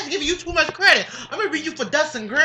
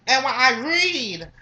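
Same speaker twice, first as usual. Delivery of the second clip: deliberate reading; slower than usual. Shown as a demonstration. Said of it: "you see how fast I can read".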